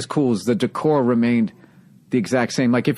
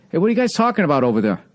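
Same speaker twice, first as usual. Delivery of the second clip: calling out; 5 semitones higher, faster than usual. Retold or imitated. Comic calling out to hecklers.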